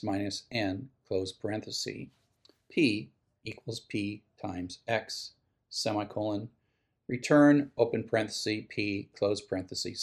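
reading code aloud symbol by symbol; dictating. Shown as a demonstration. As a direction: spell out each bracket and semicolon. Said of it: "This code is on page twenty-four of the text".

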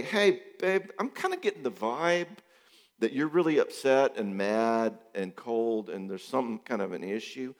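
a bright "hey babe" to open the talk; gentle confronting spouse. Retold or imitated. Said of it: "I wanna say".

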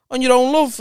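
loud cheeky call. Retold or imitated. Lad calling to a woman alone, loud and cheeky. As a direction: call it out across the table. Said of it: "one of the lads just went to her".

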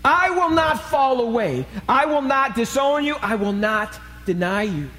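high, forceful vow; preacher voicing a determined pledge; resolute. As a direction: declare it with total resolve. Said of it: "Peter was resolute in his decision".

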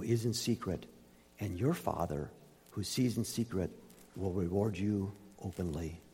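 measured, solemn reading from the pulpit; scripture reading. Acted. Preacher reading Matthew six to the congregation, solemn and measured. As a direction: read the passage aloud like holy words, rising on the warnings.

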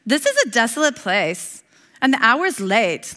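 a hint of a whiny teenager; lightly voiced tired complaining disciple. Pastor voicing the weary disciples to the congregation, mild teenage whine. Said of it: "This is my disciple voice".

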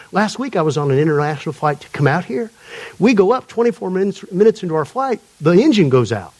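lightly imitated Atlanta man; attempted Atlanta accent. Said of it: "he's telling the story in his accent".

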